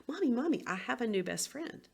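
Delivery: high, eager call to mom; a child bursting with good news, pitched high; excited little boy. Retold or imitated. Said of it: "he may come home very excited".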